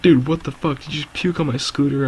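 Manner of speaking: high-pitched retold indignation; mad friend. Friend whose scooter got puked on, retold as mad. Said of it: "he was so mad about it".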